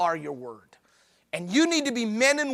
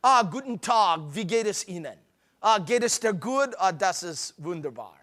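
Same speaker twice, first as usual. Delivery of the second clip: mock German; 2 semitones lower than usual. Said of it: "It's like speaking German".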